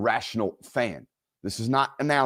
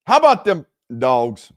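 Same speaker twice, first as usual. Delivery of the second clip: mock cheer; 7 dB louder than usual. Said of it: "He paid me to say it".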